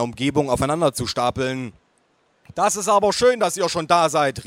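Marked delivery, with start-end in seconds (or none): 2.5-4.4 high, raised aunt voice; calling aunt. A narrator's reading. Aunt greeting family already seated, calling out. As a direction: call out a loud greeting. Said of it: "rief meine Tante".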